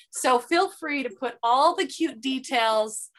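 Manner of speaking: playfully attempted Irish accent; bad Irish accent. Host inviting her guest to tell the Ireland story, bad Irish accent. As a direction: put on a clumsy, hammed-up Irish lilt. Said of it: "Is that the worst Irish accent ever?".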